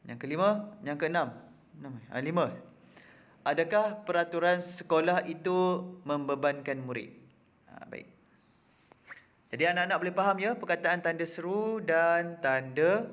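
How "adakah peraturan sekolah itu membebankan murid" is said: "Adakah peraturan sekolah" lifted in a careful question tune; "Adakah peraturan sekolah itu membebankan murid" read out as a clear question; question intonation. Shown as a demonstration. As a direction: model the question, raised from "Adakah". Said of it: "Baca ayat berikut dengan intonasi yang betul".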